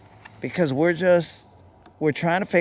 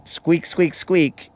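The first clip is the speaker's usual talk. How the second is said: hamster squeaks; 2 semitones higher, much slower than usual. Pretend. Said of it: "not chirp, chirp".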